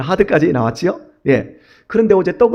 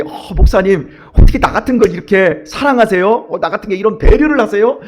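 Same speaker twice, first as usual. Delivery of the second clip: put-on delighted elderly deaconess; 3 semitones higher than usual. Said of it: "이러면서 좋아할".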